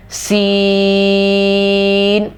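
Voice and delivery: سین with a long whistling s; whistling seen. Shown as a demonstration. Teacher demonstrating whistling س. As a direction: hiss the س hard. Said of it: "سیٹی والی آواز آئے گی".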